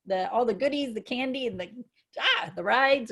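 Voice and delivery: put-on light up like a kid at the circus; childlike excitement. Describing a little kid at the circus, excited.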